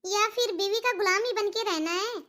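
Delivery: mildly angry scolding; reproachful mother, irritation held in check. Acted. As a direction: scold a grown son with a touch of bitterness. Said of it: "आप इतने गुस्से में क्यों हो".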